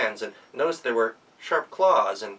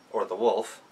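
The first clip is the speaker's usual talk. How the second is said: ordinary delivery, nothing marked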